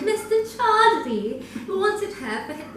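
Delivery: high, hammed-up British accent; self-mocking British narrator, laughing. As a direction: overdramatize it in a weird British accent. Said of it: "this weird British accent type thing".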